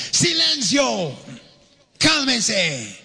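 high, slow, ringing exclamation; exclaimed command. Shown as a demonstration. Preacher shows how Jesus ordered the storm to be still, high and commanding. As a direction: call it out high like an exclamation mark. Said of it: "como un signo de admiración".

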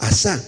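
"asá" with the accent on the last "á"; stress on final A. Shown as a demonstration. Preacher teaching a Hebrew word, "asá" stressed on the last syllable. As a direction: lean on the final vowel of "asá". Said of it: "con acento en la última A".

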